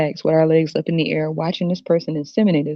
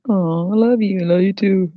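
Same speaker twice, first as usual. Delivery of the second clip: gooey mock sweet talk; mock lovey-dovey; 3 semitones higher than usual. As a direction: imitate a couple cooing. Acting out a couple in love.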